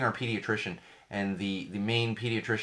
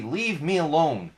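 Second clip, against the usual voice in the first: mock irritated parent; 5 semitones higher, 4 dB louder, slower than usual. Acting a parent snapping again.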